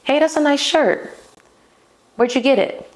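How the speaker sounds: high, bright-eyed flirty opener; playful flirt. Shown as a demonstration. Flirting with a man about his shirt, playfully high. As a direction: tease him with a light question. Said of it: "I'm gonna be like".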